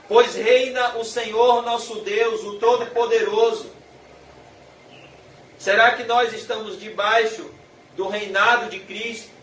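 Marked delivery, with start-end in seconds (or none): 0.1-3.7 mildly raised, exultant proclamation; strong proclamation. Acted. Preacher voices the multitude exalting God's reign, mildly strong proclamation. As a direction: proclaim it with a touch of force. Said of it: "uma voz muito forte".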